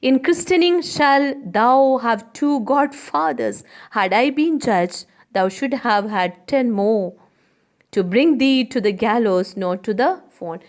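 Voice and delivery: high, loud taunting Graziano; mocking Graziano. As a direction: jeer at the man.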